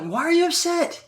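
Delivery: high, mocking put-on voice; a squeaky, sarcastic imitation of someone being offended; mock whiny voice. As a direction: play the hurt, fussy colleague. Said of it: "I'm like".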